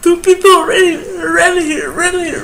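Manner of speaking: real tearful cry; tearful outburst. Real, not acted. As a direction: cry it out, pleading to be loved. Pleading whether people care.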